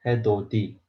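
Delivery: 해도 D sounded with a hard D; 해도 D read letter by letter; literal reading. Shown as a demonstration. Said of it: "so we have to read".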